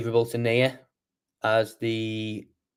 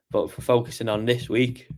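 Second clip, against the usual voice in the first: yawning. Real, not acted. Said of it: "Sorry, yawning again".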